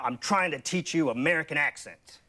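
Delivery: American accent with punched stresses on "teach" and "accent"; punchy American sing-song. Shown as a demonstration. Accent coach modelling an exercise for the host, punchy sing-song American accent. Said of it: "that kind of punchy, uh, sing-song".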